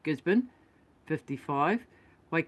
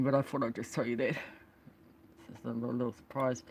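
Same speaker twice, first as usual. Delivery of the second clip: whisper; 6 semitones lower, 7 dB quieter than usual. Real, not acted. Vlogger confiding a little surprise to viewers, whispered. Teasing aside about blog.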